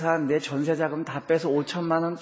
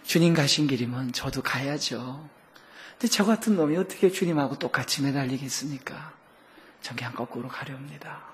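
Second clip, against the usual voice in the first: quiet and plain resolve; calm, matter-of-fact Peter; 3 semitones lower, 6 dB quieter than usual. Retold or imitated. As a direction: say it without fuss. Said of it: "덤덤하게". (덤덤하게)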